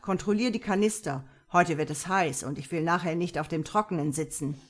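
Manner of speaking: acted imperious briskness; bossy orders. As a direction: hand out chores like a commander. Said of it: "herrschte er Birgitta an".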